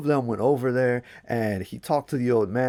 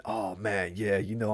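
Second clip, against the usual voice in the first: thinking to himself; 3 semitones lower, 5 dB quieter than usual. Acted. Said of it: "he was thinking".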